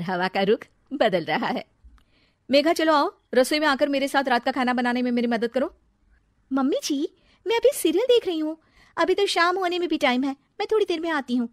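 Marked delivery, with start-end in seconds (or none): 2.5-5.7 calling out. Acted. Mother-in-law calls daughter-in-law. 6.5-11.5 dismissive. Acted. Bride brushes off mother-in-law.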